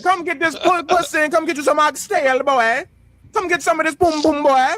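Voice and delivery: high Caribbean auntie voice, flirty; older Caribbean woman. Retold or imitated. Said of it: "them older Caribbean women".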